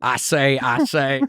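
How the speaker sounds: a hint of Foghorn Leghorn's drawl; the rooster catchphrase, lightly voiced. Host quoting the cartoon rooster, lightly voiced. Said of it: "Foghorn Leghorn".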